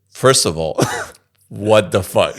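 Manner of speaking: laughing, slowed indignant what-the-fuck; mock outrage through a laugh; laughing disbelief. Girlfriend reacts to secret test.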